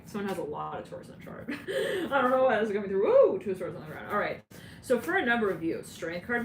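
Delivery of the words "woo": a high, loud woo; excited woo. Real, not acted. Reader whoops to viewers, loud and high. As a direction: let out a whoop.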